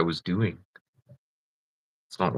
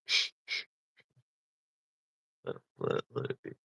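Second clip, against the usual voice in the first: whispered, much softer hush; 14 semitones lower, 11 dB quieter, faster than usual. Retold or imitated. Coworkers whispering to keep the boss from noticing. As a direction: hush them like a secret.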